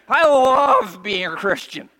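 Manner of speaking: slow and loud, every word weighed; fervent slow testimony; slow, loud declaration. Acted. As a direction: declare it from the pulpit. Same line said twice.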